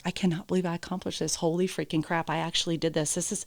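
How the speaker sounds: soft, hushed disbelief to herself; awed murmur. Retold or imitated. To herself after the last obstacle, hushed awe. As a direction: murmur it as if you can't believe it. Remembering her thoughts in the arena.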